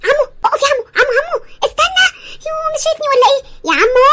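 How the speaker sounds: calling out. Acted. Girl chasing a car, calling out.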